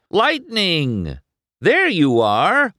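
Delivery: high, loud excited call; excited greeting. A narrator's reading. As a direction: call out high in delighted surprise. Mater suddenly spots McQueen, delighted.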